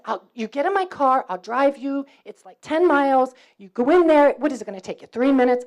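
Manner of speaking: retold New Yorker's persistent plea; begging. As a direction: talk someone into it, point after point. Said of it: "So I begged him".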